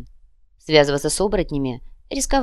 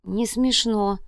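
offended; 5 semitones higher, much slower than usual. Acted. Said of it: "обиженно отозвался конец".

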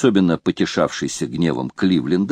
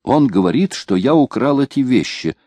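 plain reading voice

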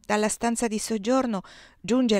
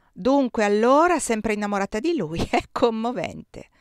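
ironic mockery; 2 semitones higher, 5 dB louder than usual. Giuseppe teasing Désiré about her old love, ironic and amused. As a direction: needle her with a mocking laugh. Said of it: "disse con ironia".

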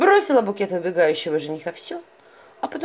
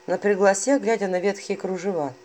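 ordinary delivery, nothing marked

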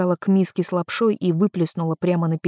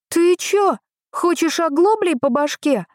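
shouting threat; 10 semitones higher than usual. A narrator's reading. Girl threatens the stranger grabbing uncle Grisha, yelling. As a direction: bark it at the stranger, club raised. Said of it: "крикнула мужику".

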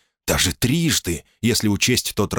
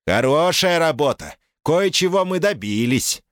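mocking American accent; 10 semitones higher than usual. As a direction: sneer it in a put-on American accent. Caller gloats in Dickie voice.

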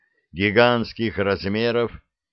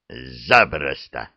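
bark; 8 semitones lower, much slower than usual. Acted. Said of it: "рявкнула".

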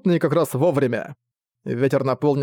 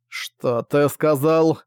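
stunned; much slower than usual. Acted. Stunned by brother's confession.

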